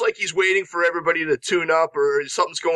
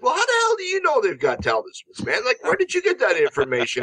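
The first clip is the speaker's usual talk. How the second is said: mock incredulous; 4 semitones higher, faster than usual. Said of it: "And it's like".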